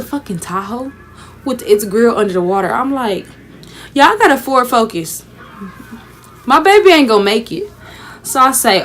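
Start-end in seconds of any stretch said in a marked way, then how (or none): 3.9-7.7 panicked worry. Retold or imitated. Sees Tahoe under water, panics.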